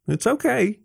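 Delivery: light, high-pitched reassurance; smiling. A narrator's reading. Fox reassures Jason about the messy room, smiling. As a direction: lift it with an easy smile. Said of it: "I smiled".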